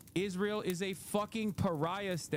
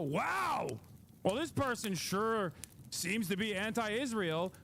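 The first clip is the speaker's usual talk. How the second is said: snide put-on voice, pitched up on wow; mocking impression; 2 semitones higher, slower than usual. Mocking her critics to her viewers, snide mock voice. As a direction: sneer it like a smug critic.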